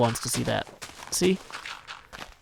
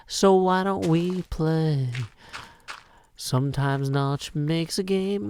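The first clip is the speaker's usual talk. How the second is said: put-on Southern US accent; slower than usual. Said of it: "It's Daniel Craig's accent from Knives Out".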